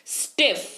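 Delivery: "स्टिफ" in one joined beat; one-syllable demo. Shown as a demonstration. Teacher repeating the example for learners, "स्टिफ" as one syllable. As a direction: say "स्टिफ" all at once. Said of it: "देखिए साथ में बोल रहे हैं".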